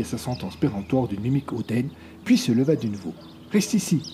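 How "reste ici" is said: ordering. A narrator's reading. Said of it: "ordonna-t-elle".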